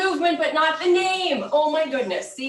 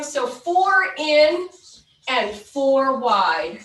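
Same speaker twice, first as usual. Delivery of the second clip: aerobics instructor; slower than usual. Acted. Counts the cool-down moves.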